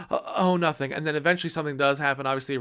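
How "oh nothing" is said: jumpy relief. Retold or imitated. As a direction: blurt "Oh, nothing." still startled. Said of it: "And then it pans back".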